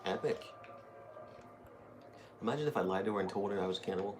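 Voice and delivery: ordinary delivery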